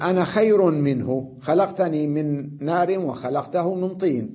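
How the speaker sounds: quoted slowly and deliberately; measured quote of the verse, first word "أنا" said short. Shown as a demonstration. Teacher reciting a verse to students, slowly and deliberately. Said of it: "يقول".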